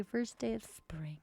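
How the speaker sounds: slow excited whisper; whispered spring cheer. Real, not acted. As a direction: breathe it out, delighted. Cheering the new season.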